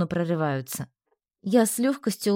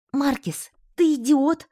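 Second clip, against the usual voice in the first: angry; 7 semitones higher, slower than usual. Acted. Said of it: "справившись со злостью".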